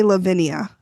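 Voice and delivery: "Lavinia" with an extra "ee-uh" ending; mistaken Lavinia. Shown as a demonstration. Co-host admitting her slip, "Lavinia" as la-VIN-ee-uh. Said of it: "I keep wanting to say".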